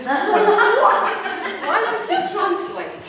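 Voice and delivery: high, loud, laughing disbelief; mock astonishment. Retold astonished reply to student.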